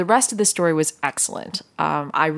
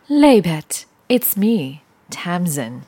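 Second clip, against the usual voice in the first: calling from the dark; slower than usual. Acted. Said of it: "a voice calls to her".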